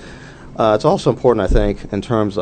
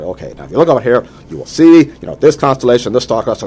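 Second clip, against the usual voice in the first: eager teacher; 5 semitones higher, 8 dB louder than usual. Retold or imitated. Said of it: "he sets up his telescope".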